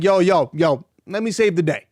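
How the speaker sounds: put-on a light, breezy American accent dropped into a quote; imitating a laid-back American accent, only lightly voiced; casual American accent. Hero personality stepping in to save friend, in a mild American accent. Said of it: "an American accent".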